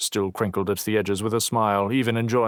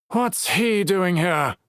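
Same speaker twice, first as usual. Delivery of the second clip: hostile scowl; 11 semitones higher, 3 dB louder, slower than usual. Acted. Searle scowling at Knox.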